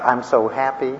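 lightly mimicked wife, nearly plain; wife crying. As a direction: quote her again almost flat. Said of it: "that's why you're crying uncontrollably".

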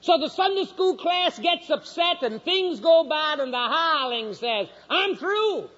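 high-pitched sermon delivery; emphatic pulpit proclamation; forceful preaching. Real, not acted.

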